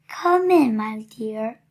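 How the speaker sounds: a mild put-on granny voice hiding the wolf; quiet old lady voice. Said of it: "in a quiet old lady voice".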